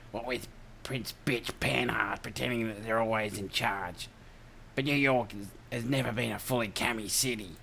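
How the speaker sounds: put-on broad Aussie Ocker accent; rough Australian Ocker accent. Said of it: "the old Ocker voice".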